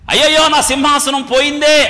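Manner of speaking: imitating a king bewailing his loss; mock lament. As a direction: cry "alas" in a hammed-up lament. Mock lament of David over lost throne.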